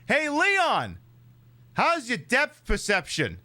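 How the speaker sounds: high, teasing call; teasing Ada. Pretend. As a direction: call out to Leon mockingly. Voicing Ada teasing Leon.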